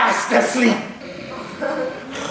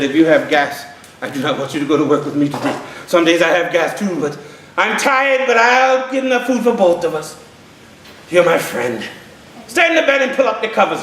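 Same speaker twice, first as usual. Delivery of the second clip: lower, gentle reassurance; kind hen; 7 semitones lower than usual. Acted. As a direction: soothe your friend.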